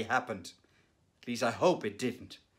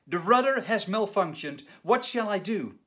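raised, louder cry for help; panicked shout; 5 semitones higher, 4 dB louder than usual. Retold or imitated. Pilot radioing the tower in panic, mild shout. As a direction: mildly shout it like a pilot in trouble. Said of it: "in panic and shouted".

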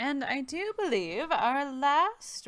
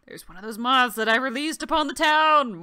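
laughing villain; 2 semitones higher, 13 dB louder than usual. Pretend. Villainous confession of released moths.

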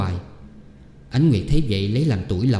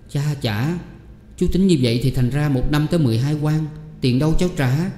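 dismayed exclamation; 5 semitones higher than usual. Acted. Niece shocked by the price.

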